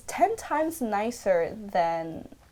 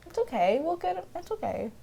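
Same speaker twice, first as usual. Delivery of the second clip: mock reassuring Grandpa Joe; 6 semitones higher, 5 dB quieter, faster than usual. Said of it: "He's just like".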